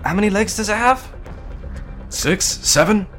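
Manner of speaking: very high, loud, urgent questions; calling over shoulder. A narrator's reading. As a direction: shout questions mid-fight. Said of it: "Noah called over his shoulder".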